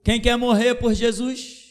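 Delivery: high, loud challenge to the church; fervent shout. Acted. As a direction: call them out at full force. Preaching challenge, rising loud. (desafio pregado aos gritos)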